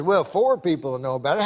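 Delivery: lightly voiced frontier barkeep; Southern bartender. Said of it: "I can tell by the accent".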